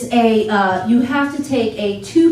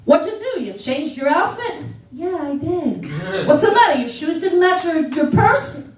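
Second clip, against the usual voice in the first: mocking, pitched up high; teasing boyfriend; 4 semitones higher than usual. Boyfriend teasing her about her outfit, mocking and high. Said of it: "He looks at me".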